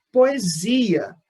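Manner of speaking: Poesia with its middle "si" stretched and strongest; stress on the zi of Poesia. Shown as a demonstration. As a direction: lean on the "si" in Poesia, then fall away. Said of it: "O zi é a sílaba tônica mais forte". (Poesia com a sílaba "si" mais forte)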